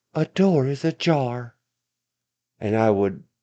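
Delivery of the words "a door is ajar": slow, pitched-up automated car lady voice. Imitating a talking car's warning in the best car lady voice. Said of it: "This is my best car lady voice".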